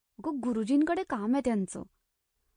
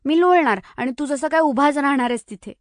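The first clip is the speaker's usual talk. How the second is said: louder sulky comeback, cheeks puffed; pouting retort; 4 semitones higher, 6 dB louder than usual. Acted. Girl pouts and retorts to the teasing boy. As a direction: snap back with a pout. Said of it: "गाल फुगवून म्हणाली".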